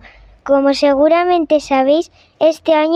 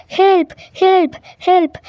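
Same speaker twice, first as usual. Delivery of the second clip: a schoolkid's light, higher "Help, help, help", falling on each "help"; mild mock cry for help; 4 semitones higher, much slower than usual. Drowning Englishman calling for help, mild mock yell. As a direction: call "Help" like a man overboard, half-acted. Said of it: "empieza a gritar".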